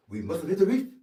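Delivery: put-on loud, high-pitched Bahamian accent with a rising end. Ship's aide repeats the line for actor, in emphatic Bahamian accent. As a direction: punch it out in an imitated Bahamian accent. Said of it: "he was a native Bahamian".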